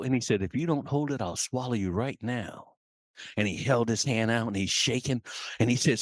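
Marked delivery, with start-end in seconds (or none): 0.4-2.7 menacing eagle. Acted. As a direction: threaten the chick, sinking in pitch and volume. Eagle threatens chick.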